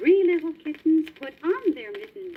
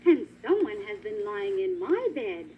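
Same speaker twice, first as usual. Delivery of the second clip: middle-sized voice; 4 semitones higher than usual. Acted. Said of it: "said Mother Bear in a middle-sized voice".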